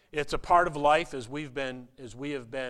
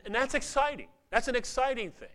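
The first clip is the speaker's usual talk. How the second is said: excited; 9 semitones higher, faster than usual. Real, not acted. Preacher lifting the sermon.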